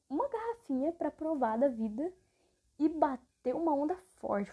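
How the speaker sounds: ordinary talk, nothing marked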